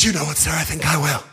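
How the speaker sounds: prim schoolgirl impression. Pupil answering her teacher, prim and formal. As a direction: accept it primly like a 1940s housewife. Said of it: "She said".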